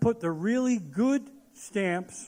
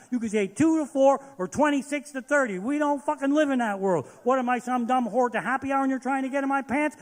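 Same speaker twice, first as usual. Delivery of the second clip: angry rant; 3 semitones higher than usual. Real, not acted. Ranting at weatherman.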